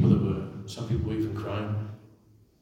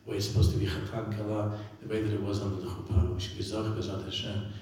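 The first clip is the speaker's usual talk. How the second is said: earnest prayer. Acted. Pleading prayer to Hashem.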